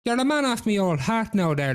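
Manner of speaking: high, lilting sweet talk; butter up the devil; flattering Jack. Acted.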